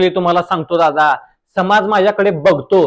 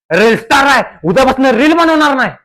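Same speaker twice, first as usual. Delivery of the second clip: higher, louder huffy threat; offended outburst; 4 semitones higher, 3 dB louder than usual. Acted. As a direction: sulk out loud in protest. (चिडून, रुसून धमकी देत)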